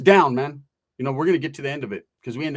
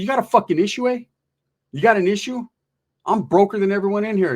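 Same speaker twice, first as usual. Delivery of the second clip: mock indignant; 5 semitones higher, 3 dB louder than usual. Heated argument, performing broke.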